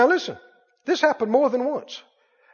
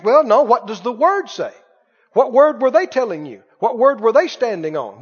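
higher, louder, driving exhortation; fiery preaching; 4 semitones higher, 3 dB louder than usual. Acted. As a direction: press the point home to the church. Preaching at full force.

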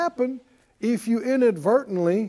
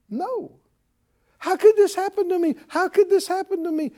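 much higher, whiny mock panic; panicky doubter; 10 semitones higher than usual. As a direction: play the frantic believer who lost faith. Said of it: "You don't sound like a faith person".

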